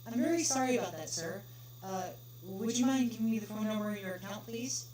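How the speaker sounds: apologetic pony clerk answering the call; polite phone clerk. Acted.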